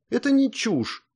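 high indignant protest. A narrator's reading. Girl indignantly defends the princess. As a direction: bristle with indignation. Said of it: "возмутилась она".

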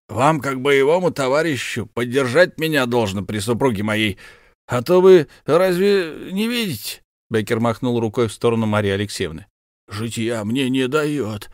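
put-on high, hearty bragging old soldier; boastful count Bekker. Count presents his comrade to his wife, high and proud. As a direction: show off your war comrade.

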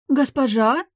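high, loud startled cry of a maid; gasping maid. A narrator's reading. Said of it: "ахнула служанка".

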